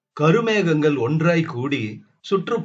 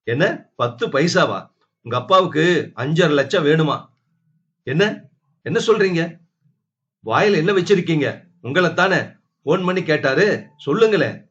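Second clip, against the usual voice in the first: raised, scornful comeback; sharp retort; 2 semitones higher, 3 dB louder, faster than usual. Acted. Sister-in-law mocks Tulasi's claim, sharp and raised. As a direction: throw the words back at her.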